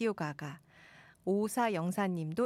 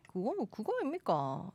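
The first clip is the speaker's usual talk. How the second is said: swooping Gyeongsang question; Gyeongsang dialect; 3 dB quieter than usual. Pretend. Host defending her dialect, Gyeongsang accent. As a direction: toss it off in Gyeongsang lilt. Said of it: "잘합니다".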